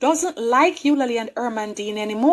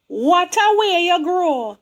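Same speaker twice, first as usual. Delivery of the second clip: slow, lilting Jamaican greeting; Jamaican church folk; 3 semitones higher, slower than usual. Retold or imitated. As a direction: imitate the church ladies' Jamaican patois. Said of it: "That is the way they talk".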